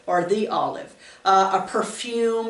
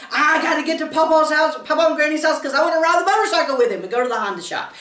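put-on eager kid; 6 semitones higher, much faster than usual. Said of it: "And I'd be like".

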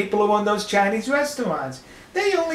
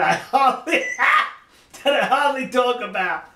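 laughing; 3 semitones higher than usual. Real, not acted. Laughs while starting his subject.

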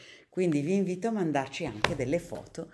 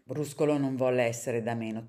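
lively read-aloud for children, characters voiced; storybook reading; 3 dB louder than usual. A narrator's reading. Reader reading a picture book to children, lively storytelling. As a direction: read the tale to kids with bright expression.

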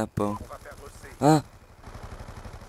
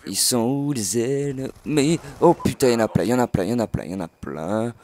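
panicked; 3 semitones higher than usual. Real, not acted. Panicking as enemies appear.

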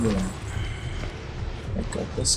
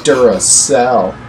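drawn-out, louder brand name; mock brand plug; 5 dB louder, much slower than usual. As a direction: stretch the name out like an ad. Mock brand shout-out in banter.

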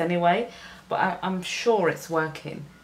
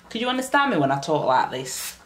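northern English accent. Shown as a demonstration. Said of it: "an accent from the north of England".

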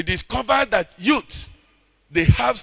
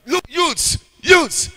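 a mock pastor's shout, higher; imitated shouting; 7 semitones higher, 5 dB louder, much slower than usual. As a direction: call out like the daddy in church. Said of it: "was shouting".

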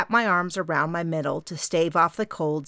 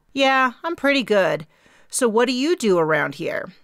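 higher, louder apologetic question; 6 semitones higher, 5 dB louder than usual. A narrator's reading. Di admits she missed the name, apologetic and raised. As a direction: sheepishly ask her name. Di replies.

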